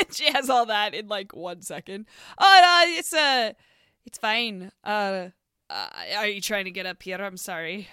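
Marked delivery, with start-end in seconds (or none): 2.4-7.9 blurt, then shrink away sorry; flustered Mari. Acted. Mari flusters at the stable boy, fading. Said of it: "so she's like".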